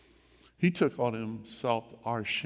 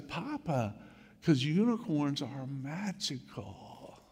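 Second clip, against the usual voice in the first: put-on little girl voice; 3 semitones higher, 3 dB quieter, slower than usual. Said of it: "she says".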